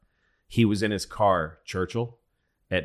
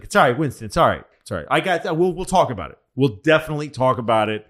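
higher, a bit louder, breezy reassurance; mock reassuring Roosevelt; 4 semitones higher, 4 dB louder, much faster than usual. Roosevelt brushing off Winston, mock soothing and higher. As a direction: pat Winston on the head, pitched up. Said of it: "F D R is like".

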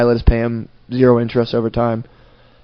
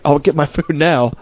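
lightly voiced spoiled rich kid. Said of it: "grew up with, like, ninety servants".

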